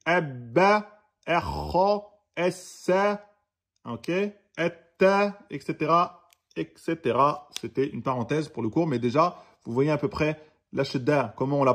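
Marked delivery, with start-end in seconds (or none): 0.1-5.4 Abba, essa, etta with the doubled letter pressed; pressed double consonants. Shown as a demonstration. Teacher listing examples, doubled letters pressed. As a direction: lean on each doubled consonant. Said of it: "vous appuyez".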